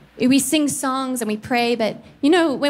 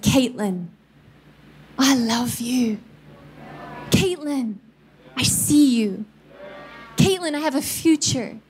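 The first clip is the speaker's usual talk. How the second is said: a touch of the Spirit's tender call; tender voice of God. Retold or imitated. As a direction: speak love to a child. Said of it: "not an audible voice".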